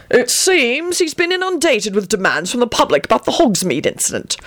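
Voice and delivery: continue sourly; mildly disgruntled. A narrator's reading. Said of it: "Arthur continued sourly".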